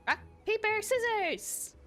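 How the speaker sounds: high, eager game call; excited shout. Acted. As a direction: chant it with rising excitement. Characters play rock paper scissors.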